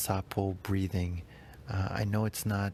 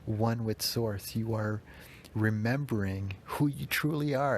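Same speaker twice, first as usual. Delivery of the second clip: a cat cooing praise; lightly voiced cat with meows; voicing the cat Jazz; 3 semitones higher than usual. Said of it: "Jazz comes in and is like".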